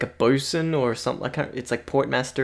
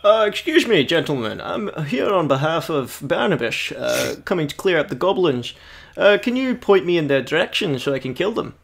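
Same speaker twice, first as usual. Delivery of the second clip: adventurer addressing guards; 2 semitones higher than usual. Acted. Player speaks in character to guards.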